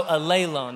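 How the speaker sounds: "alelone" said a-LAY-lone; stress on second syllable. Shown as a demonstration. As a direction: demonstrate "alelone", accent on the LAY. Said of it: "That's how you say that".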